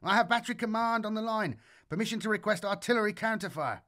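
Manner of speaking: high, fast radio urgency; urgent excited. Acted. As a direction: rush the request. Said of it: "Grishin screamed through the static".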